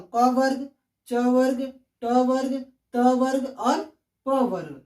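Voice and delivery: measured list, each group set apart; unhurried. Shown as a demonstration. Teacher listing letter groups for students, unhurried. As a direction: take each वर्ग at an easy, deliberate pace. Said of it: "मैं एकदम आराम से बताऊं".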